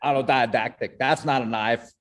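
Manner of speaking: put-on botched Crocodile Dundee Australian accent; bad Australian accent. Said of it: "That was terrible".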